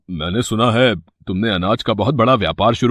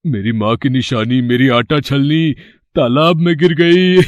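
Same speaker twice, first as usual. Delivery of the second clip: fake crying, stifling laughs. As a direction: pretend to weep but can't hold back a laugh. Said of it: "रोने का नाटक करता है।".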